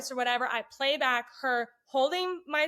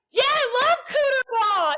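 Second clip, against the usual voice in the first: mock eager; 10 semitones higher, 6 dB louder than usual. Faking enthusiasm about cooter ball.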